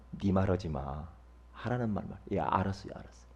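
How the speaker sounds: soft, low command and meek reply; imitated hushed submission; subdued exchange. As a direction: act out giving in quietly. Retold exchange, submitting to God.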